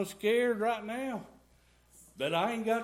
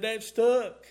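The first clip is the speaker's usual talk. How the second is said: "That stuck" said again, much louder and firm; repeated louder; 3 semitones higher, 8 dB louder than usual. Retold or imitated. Retelling the friend's words to the church, louder repeat. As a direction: hammer home "That stuck" the second time. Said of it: "He said".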